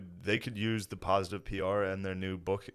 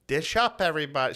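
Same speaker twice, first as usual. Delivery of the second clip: higher-pitched mock dinner call; imitated mom yell; 4 semitones higher than usual. Son imitating mom calling everyone to dinner, mock yell. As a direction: call out like mom summoning the family. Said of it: "I yell it before she yells it".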